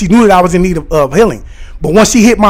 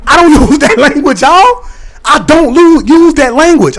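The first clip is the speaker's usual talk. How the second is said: laughing; 7 semitones higher than usual. Real, not acted. Laughing at own quote.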